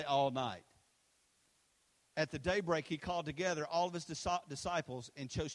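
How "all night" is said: congregation echo. Shown as a demonstration. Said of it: "Everybody say".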